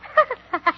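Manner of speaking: mock mad cackle; blood-curdling laugh. Told the potion is working, gives a blood-curdling laugh. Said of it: "You give a blood-curdling laugh".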